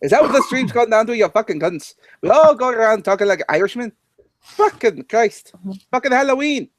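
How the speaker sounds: put-on Irish accent. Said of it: "you sound like a goddamn drunk leprechaun".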